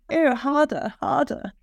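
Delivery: lightly hammed-up posh erotic performance; posh accent. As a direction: play it posh, urging a lover on. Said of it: "I had to do a posh accent".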